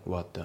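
WHAT THE as "wa'da"; dropped T. Shown as a demonstration. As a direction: swallow the T of WHAT. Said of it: "whatのTが抜きますね".

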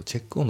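"チェックオン" linked as one word, "che-kon"; "チェックオン" with no break in the middle; linking. Shown as a demonstration. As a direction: run the k of "チェック" straight into "オン". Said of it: "リンキングでチェックオンだね".

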